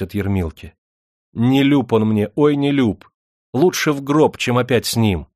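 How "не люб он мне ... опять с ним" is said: anguished refusal. Acted. Katyusha refuses her husband.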